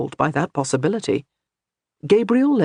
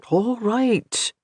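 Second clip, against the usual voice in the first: soothing; 6 semitones higher than usual. A narrator's reading. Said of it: "he soothed".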